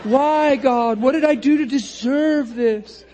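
hammed-up, drawn-out plea; mock-wail it slowly, poor little me; pitiful complaint. Stuck believer pleading with God, mock pitiful wail. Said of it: "Isn't that a lame, pitiful way of thinking".

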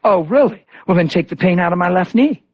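lightly mocking sceptic with a rising end; sarcastic. Woman challenging him to heal her knee, sarcastic.

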